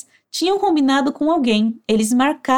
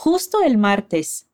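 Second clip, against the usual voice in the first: slow, clear teacher model; slow model phrase; 3 semitones lower, slower than usual. Shown as a demonstration. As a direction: spell it out slowly for students. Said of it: "fica assim".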